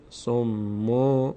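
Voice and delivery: slow سمو, holding the m across both syllables; som-mo, m said twice over; doubled mim with vowel. Shown as a demonstration. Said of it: "تنوین حرف کرد خودش".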